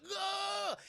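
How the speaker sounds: high-pitched "ugh" of someone zapped; acted groan of being knocked back; pained cry. Hudson gets electrified and falls back, pained cry.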